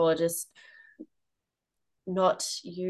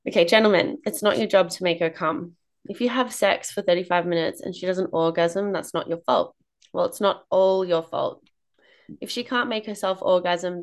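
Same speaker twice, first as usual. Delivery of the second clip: game show host. Acted. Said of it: "I'm putting on my game show host voice".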